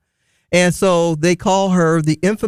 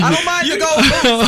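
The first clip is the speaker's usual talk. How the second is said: laughing; 10 semitones higher than usual. Real, not acted. Joking about fraternity gold boots.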